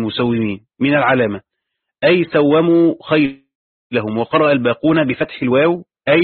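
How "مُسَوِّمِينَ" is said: "مسومين" with i after the w, musawwimīn; kasra on waw. Shown as a demonstration. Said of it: "يقصد بكسر الواو".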